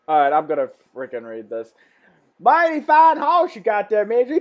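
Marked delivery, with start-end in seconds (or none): 2.4-4.4 high, put-on sing-out greeting; character greeting. Visitor admiring the Major's house, high put-on greeting. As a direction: call it out in a raised voice. Reads horse movie dialogue in character.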